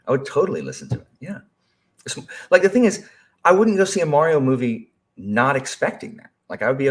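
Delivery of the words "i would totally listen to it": higher, louder, quicker repeat; fast, eager, higher and louder restatement; excited repeat. Real, not acted. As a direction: blurt it again with eager emphasis.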